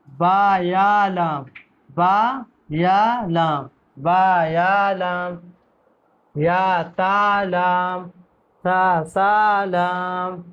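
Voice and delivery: drawn-out spelling of each letter; slow teacher recitation of letter names; slow letter drill. Shown as a demonstration. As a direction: chant the letter names slowly for pupils to repeat. Teacher spells letter groups slowly.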